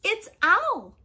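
very high little-creature voice; chirpy mouse. Acted. Mouse names who is coming, high and chirpy. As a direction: pipe it up high.

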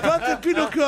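put-on high, loud kid's shout; little kid. Little boy accusing a big-nosed man, high imitated kid shout. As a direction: imitate a small boy calling someone out. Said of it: "il y a un petit mec qui est venu".

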